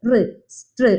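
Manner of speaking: റ് alone, then str as one blended "struh"; sounding out, then blending. Shown as a demonstration. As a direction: isolate റ്, then run str together. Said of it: "ആറിന്റെ sound". (റ് തനിച്ച്, പിന്നെ str കൂട്ടിച്ചേർത്ത്)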